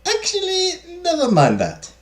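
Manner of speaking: very high start, dropping as she backs off; flustered maid. Acted. Maid abandons gossip about madame, flustered. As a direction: catch yourself in a high, embarrassed servant voice. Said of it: "Camille stops, stares into space, and blushes".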